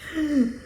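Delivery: short, high laugh of disbelief; exasperated laugh. Real, not acted. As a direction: laugh instead of screaming or crying. Exasperated at the situation.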